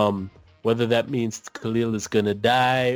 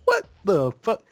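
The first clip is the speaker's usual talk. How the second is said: disbelieving what the fuck, pitched up high on the repeat; mock shocked what the fuck, rising higher; incredulous outburst; 7 semitones higher than usual. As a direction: react like you can't believe what you just saw. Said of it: "which was like".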